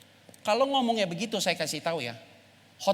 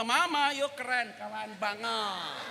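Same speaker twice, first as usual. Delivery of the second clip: mock praise; 7 semitones higher, slower than usual. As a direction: praise her with a laugh.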